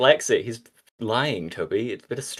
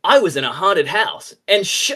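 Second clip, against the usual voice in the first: whispered Sonic voice; 9 semitones higher, 5 dB louder than usual. Acted. Sonic telling spooky story.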